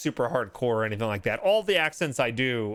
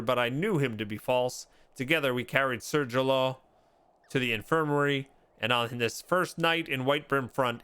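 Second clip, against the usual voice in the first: lightly voiced guilt-ridden knight, measured and earnest; remorseful confession. Player voicing a knight confessing his guilt, remorseful.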